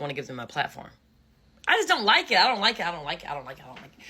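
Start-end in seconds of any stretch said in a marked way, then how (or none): 1.7-4.0 fading repetition. Acted. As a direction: say it over and over, trailing off each time. Repeating, fading her complaint.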